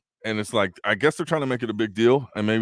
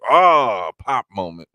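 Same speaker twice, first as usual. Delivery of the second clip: loud drawn-out "oh", then dropping back; imitated excited reaction; 8 dB louder, slower than usual. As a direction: mimic a fan's big pop. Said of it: "nothing is like".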